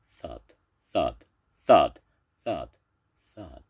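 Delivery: thuds swelling, then dying away; heavy footfalls, the last one faint; thudding footsteps. A narrator's reading. Narrator imitates monster footsteps.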